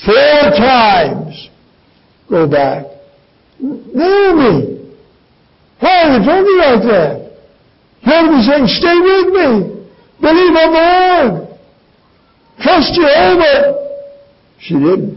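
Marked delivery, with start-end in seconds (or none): 3.6-13.7 imagined rebuke. Retold or imitated. Preacher voices Ruth's ideal rebuke.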